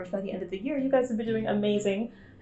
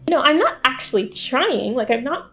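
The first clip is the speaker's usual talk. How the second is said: slightly lifted, a bit louder friendly video voice; approachable voice; 3 semitones higher, 4 dB louder than usual. Shown as a demonstration. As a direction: lift it a little to sound approachable. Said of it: "I lift the octave of my voice a little bit, I talk a little louder".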